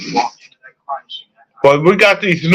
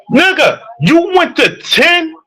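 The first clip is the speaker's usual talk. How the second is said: exasperated; 5 semitones higher than usual. Real, not acted. Rant at LeBron fans.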